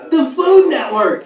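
loud, slow, hyped announcement; excited shout. Real, not acted. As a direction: belt out the channel name. Hyping the food channel.

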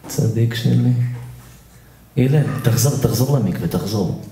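low, easygoing voice; calm dismissal. Acted. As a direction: send him back in a low voice. Sending Hillel back, calmly. (שילוח רגוע בקול נמוך)

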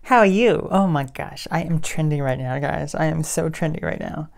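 loud, gushing fake-excited intro; hammed-up bubbly influencer voice; mock hyper vlogger. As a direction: parody the over-the-top trending YouTuber. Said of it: "who's talking like this".

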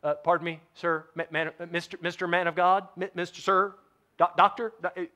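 hesitant, stammering politeness; timid, gentle approach. Acted. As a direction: fumble nervously for the right title. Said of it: "real gentle".

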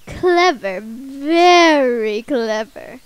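slow drawn-out mocking flower; Flowey voice. Flowey sneering at the player, slow and mocking. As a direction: drag out the sarcasm.

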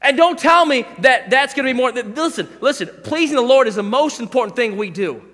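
loud, driving sermon delivery; fiery pulpit preaching; preaching at full force. Acted. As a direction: preach it hard to the dads.

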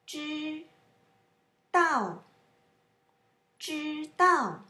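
知 high and level, 道 falling from high; tone drill. Shown as a demonstration. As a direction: hold 知, then drop on 道. Teacher drills tones of a word.

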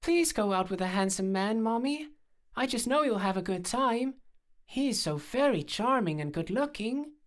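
cutesy high voice for a dog; squeaky-cute pet ventriloquism; high-pitched puppy voice. A narrator's reading. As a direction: plead as a little puppy. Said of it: "speaking in a high-pitched voice".

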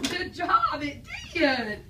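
bright burst of praise with a laugh; excited praise. Real, not acted. Teacher praising a child who found the answer, excited.

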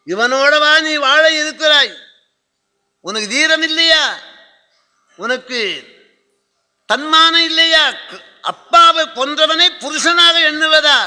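high, loud theatrical challenge; furious exhortation. Acted. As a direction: cry out in outrage, goading her to avenge her father. Goading the sword to avenge father. (ஆவேசமாக உரத்த குரலில் தூண்டுதல்)

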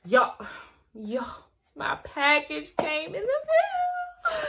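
high, slow, giddy announcement; excited squeal. Real, not acted. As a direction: squeal it out like the box just came. Thrilled about brand package.

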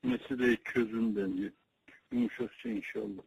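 thin, distant phone-line voice; over a landline phone. Real, not acted. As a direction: heard through the receiver. Other end of a phone call.

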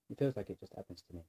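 rushed, hurried delivery; talking too fast. Real, not acted. Confiding in viewers about own quirk, talking too fast. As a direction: rattle it off too quickly. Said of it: "Am I talking too fast?".

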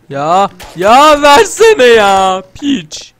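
loud, slow drawn-out exasperated yell; frustrated shout. Real, not acted. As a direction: stretch it out loudly in annoyance. Frustrated at game item. (eşyayı alamayan oyuncu, sinirli uzatılmış bağırış)

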